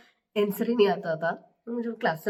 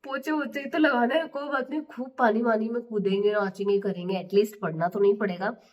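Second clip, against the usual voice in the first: gleeful inner thought. Retold or imitated. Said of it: "मन में तो मैं सोच रही थी".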